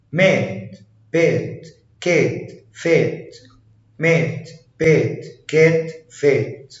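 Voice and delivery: "مات", "بات" with a light, fronted A. Shown as a demonstration. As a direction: say كات and فات with a thin A, not a heavy one. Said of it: "بينطق خفيف".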